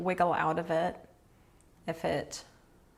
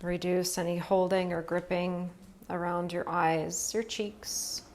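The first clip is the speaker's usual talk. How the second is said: calm, even yoga-nidra guidance with long pauses; unhurried phrases, leaving space to breathe; guided relaxation. Real, not acted. Yoga teacher guiding students through restful breathing, calm guided relaxation. Leads restorative breathing practice.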